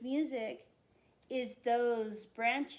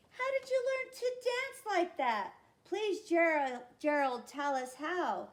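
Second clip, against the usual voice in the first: eager pleading; 5 semitones higher, 3 dB louder than usual. Acted. Animals begging Gerald.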